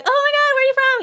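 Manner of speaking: high-pitched amazed retelling; mock-amazed question; surprised question. Acting own surprised reaction in story.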